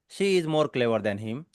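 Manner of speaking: slow word-by-word reading. Shown as a demonstration. Teacher demonstrating a non-fluent speaker, slow word by word. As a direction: say each word separately and evenly. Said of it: "तो इस तरीके से pronounce करता है".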